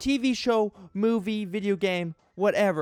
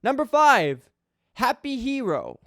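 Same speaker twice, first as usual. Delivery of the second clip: dramatic reading. Acted. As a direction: grandly read review voice, mock-serious. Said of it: "a dramatic reading of this guy's review".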